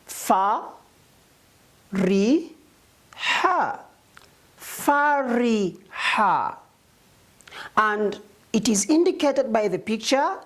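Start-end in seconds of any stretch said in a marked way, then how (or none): 0.0-3.8 fa, ri, ha split into separate syllables; sounding out syllables. Shown as a demonstration. Teacher sounding out a word for pupils, syllable by syllable. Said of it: "by reading each letter with their short vowels". 4.6-6.5 Fariha drawn out very slowly; blended slowly. Shown as a demonstration. Teacher blending the syllables into one word, very slowly. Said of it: "The word is".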